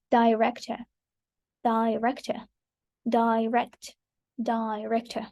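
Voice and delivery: "Director" and "direct" said carefully, one at a time; word-stress model. Shown as a demonstration. Teacher demonstrating professions with suffixes, careful word stress on "Director, direct". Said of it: "stress is placed on the first syllable".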